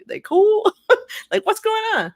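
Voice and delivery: high mock-incredulous squeak with a laugh; laughing retold question. Host retelling her question to the reporter, laughing and high. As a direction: ask it through a laugh, way up high. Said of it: "I'm like".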